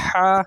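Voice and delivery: "ہا" as a thin throat h, not drawn out; short pharyngeal "ہا"; thin, unstretched. Shown as a demonstration. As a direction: say "ہا" lightly without pulling it long. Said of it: "اسے کھینچنا بھی نہیں ہے".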